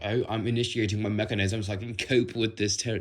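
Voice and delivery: stiff mechanical robot voice. Retold or imitated. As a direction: sound like a robot. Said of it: "mechanism makes you sound like a robot".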